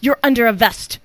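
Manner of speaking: put-on kid voice. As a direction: deliver the punchline like a kid. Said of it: "I'm trying to do my kid voice".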